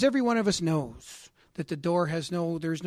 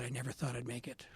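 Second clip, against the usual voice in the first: softer, lower, a humble murmur of the father's words; quiet humble quote; 5 semitones lower, 11 dB quieter than usual. Retold or imitated. Father receiving his coin, quiet and humbled. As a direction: let it fall away, a touch humbled. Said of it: "He said".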